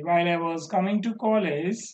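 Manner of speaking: "college" rising, sentence left open; quick clause ending upwards on "college". Shown as a demonstration. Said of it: "rising tone పెట్టాలి".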